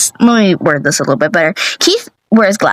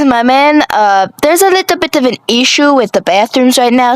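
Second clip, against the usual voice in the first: lightly voiced worried cashier, pitched up; very concerned; 3 semitones higher than usual. Cashier warns Keith about the bathrooms, mildly concerned. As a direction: gently warn him, a bit raised. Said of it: "very concerned".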